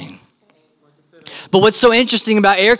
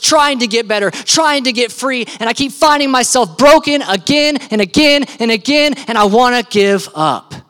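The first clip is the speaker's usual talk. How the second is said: pleading prayer, building higher and more insistent; despairing plea, stressed repeats, dropping at the end; desperate plea; 3 semitones higher than usual. Acted. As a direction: cry out to God in mounting frustration.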